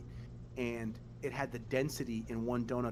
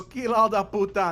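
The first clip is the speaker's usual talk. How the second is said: put-on loud, much higher old-lady accent yell; grandma yelling; 9 semitones higher, 13 dB louder than usual. Great-grandma cursing the neighbors, loud mock yell. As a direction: spit it out like a furious nonna. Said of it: "And she go".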